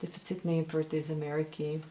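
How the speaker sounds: импорт and Америки with English R's; Russian line with untrilled English R in импорт, Америки. Retold or imitated. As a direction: imitate an American-sounding R in импорт and Америки. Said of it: "those really English R's".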